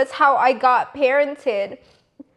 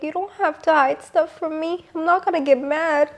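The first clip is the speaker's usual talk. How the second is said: soft, slightly higher-pitched parent voice; lightly voiced comforting mom; gentle reassurance; 3 semitones higher, 4 dB quieter than usual. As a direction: softly reassure a child, a little lifted. Reassuring her child, quoted.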